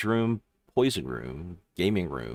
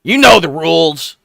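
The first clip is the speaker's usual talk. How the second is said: very high, loud goblin squeak; a small goblin sizing up strangers, shrill-pitched; squeaky goblin; 10 semitones higher, 14 dB louder than usual. Acted. GM voicing a goblin questioning the rogue's party, squeaky and high.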